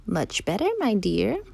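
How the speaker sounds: swooping, lilting fake granny; wolf posing as grandmother. Wolf answers from the bed, swooping granny pretence. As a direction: swing the pitch up on the endings.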